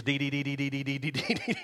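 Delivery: lightly voiced toddler babble, rising at the end; a light imitation of a small child's one-syllable chatter. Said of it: "it was".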